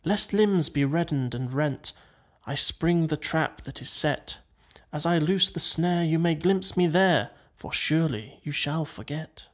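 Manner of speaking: measured verse with small pauses between phrases; verse recitation. A narrator's reading. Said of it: "Then the voice returns".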